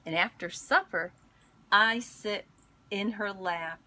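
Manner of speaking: gentle storybook read-aloud; picture book reading voice; reading to children. Acted. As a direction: read it like story time for kids.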